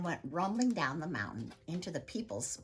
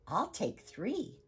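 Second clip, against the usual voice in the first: eager and slow, pitched higher; excitedly; 6 semitones higher, 4 dB louder, slower than usual. Acted. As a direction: grab the bargain with delight. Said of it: "woman said excitedly".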